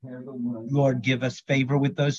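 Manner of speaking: earnest spoken prayer, steady rhythm; praying aloud. Acted. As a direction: pray over them like a pastor. Leads group prayer aloud.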